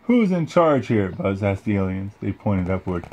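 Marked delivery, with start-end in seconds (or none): 0.0-1.1 heroic space ranger. Acted. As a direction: proclaim it like a hero. Buzz addresses the aliens.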